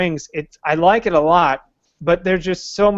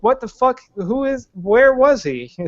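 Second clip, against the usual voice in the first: mock bafflement; 7 semitones higher than usual. Mock baffled audience reaction.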